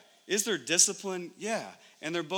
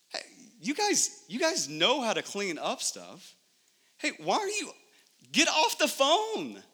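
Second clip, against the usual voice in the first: scolding dad; 5 semitones higher than usual. Retold or imitated. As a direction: bark complaints the second you walk in. Dad scolding kids on arriving home.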